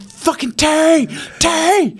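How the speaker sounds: very high, strained mock yell; high-pitched re-enacted holler for attention; calling out. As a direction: imitate calling through a thick window. Calling through thick hospital window.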